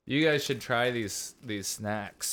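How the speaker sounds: chewing while talking; words round candy in the mouth; eating sour candy. Real, not acted. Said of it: "we were just chewing".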